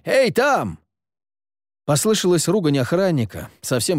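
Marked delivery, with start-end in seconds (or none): 0.0-0.8 shout. A narrator's reading. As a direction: keep yelling upward. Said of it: "закричал Реми". (кричит наверх)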